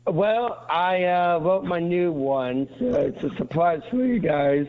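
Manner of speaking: rough, raspy voice from a cold; gravelly sick voice. Real, not acted. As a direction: croak it out through a bad cold. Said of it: "You sound like Gravel Gertie".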